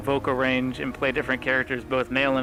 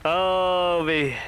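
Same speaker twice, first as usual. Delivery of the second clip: commanding guard captain, gloating; scary voice of authority; 4 semitones higher, much slower than usual. Acted. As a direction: talk down to them like a sadistic captain. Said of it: "Scary voice of authority".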